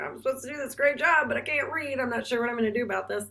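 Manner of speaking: a flustered servant rushing his words; worried servant. Acted. Teacher voices worried illiterate servant.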